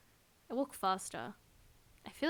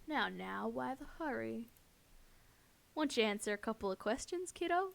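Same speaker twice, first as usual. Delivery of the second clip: lightly drawled menace under sweetness; a hint of a syrupy cowboy villain; saccharine drawl. Stalker blocks her way to the door, saccharine drawl. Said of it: "drawling voice is saccharine venom".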